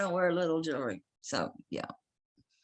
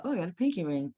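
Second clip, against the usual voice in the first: mock hopeful; 4 semitones higher, 4 dB louder, faster than usual. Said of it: "I thought".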